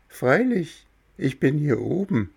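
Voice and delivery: a tiny creature giving friendly directions; cricket voice. Acted. Cricket tells visitors how to open door, high little voice.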